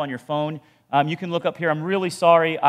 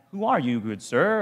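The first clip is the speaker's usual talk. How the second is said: polite respect. Shown as a demonstration. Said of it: "It can mean sir, like".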